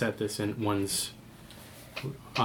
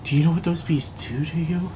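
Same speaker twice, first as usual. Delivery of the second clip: higher, frantic warning from a scared survivor; a hint of panic, pushing the words out; terrified survivor; 4 semitones higher than usual. Dying survivor to the medic about the bees, panicked.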